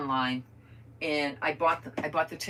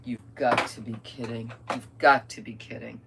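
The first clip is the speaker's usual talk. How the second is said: low-pitched, leaning hard on "got"; retold disbelief; 4 semitones lower, 3 dB louder than usual. Vlogger recalling the wrong theater, deadpan disbelief. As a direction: drop the pitch in weary disbelief.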